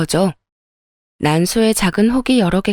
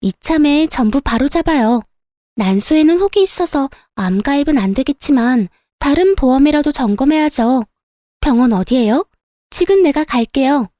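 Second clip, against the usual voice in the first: high, eager sales-pitch voice; excited, worked-up; 5 semitones higher than usual. Acted. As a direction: push the insurance, high and keyed-up. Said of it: "묘하게 신나고 격앙된 목소리로".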